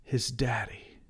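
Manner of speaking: soft whisper. A narrator's reading. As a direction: breathe the words. Narrator whispers.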